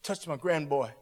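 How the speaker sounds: softly imitating a tearful plea; tearful prayer. Grandfather praying for his grandboy, quietly tearful. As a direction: plead gently, a touch of tears. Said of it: "He's crying, he said".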